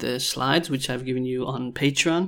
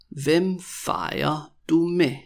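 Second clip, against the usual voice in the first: drawn-out question, small gaps between words; very slow, word by word; 3 semitones higher, much slower than usual. Shown as a demonstration. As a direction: spell the question out slowly for learners. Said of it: "when I say it really slowly".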